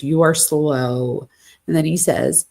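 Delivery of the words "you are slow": "You are slow" drawn out word by word; all-caps emphasis. Retold or imitated. Girlfriend texting boyfriend in all capitals, "You are slow" slow and emphatic. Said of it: "she writes all in capital letters".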